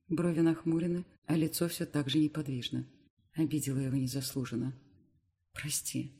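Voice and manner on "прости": soft, much quieter apology; guilty whisper. Acted. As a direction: breathe it out ashamed. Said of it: "шепчу виновато".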